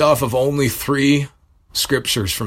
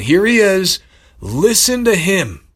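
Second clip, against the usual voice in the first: voice of God; 9 semitones higher, 4 dB louder than usual. Retold or imitated. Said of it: "He's going".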